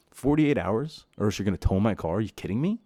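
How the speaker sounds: can't believe what they're asking; incredulous. Real, not acted. Tenant ranting at management's tow notice, incredulous.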